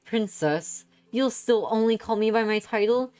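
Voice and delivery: high, eager princess voice; excited princess. Acted. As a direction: gush like a lovestruck royal. Princess voice, held role.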